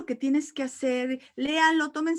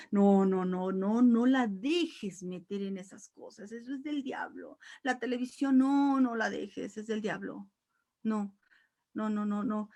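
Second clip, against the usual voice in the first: mock forbidding. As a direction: imitate a strict churchgoer saying no. Mocking forbidding churchgoer.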